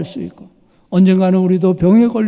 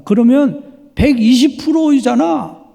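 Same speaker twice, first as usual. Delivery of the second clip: friend's retort; 6 semitones higher, 3 dB louder than usual. Retold or imitated. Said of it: "친구가 말했습니다".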